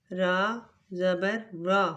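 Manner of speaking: را said thick, full and heavy; heavy letter. Shown as a demonstration. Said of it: "اس کو موٹا بھی پڑھیں گے".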